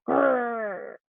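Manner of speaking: playful soft bear growl; a mild mock growl for the kids. Shown as a demonstration. Teacher shows kids a bear growl, softly playful. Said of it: "Now give me a big growl".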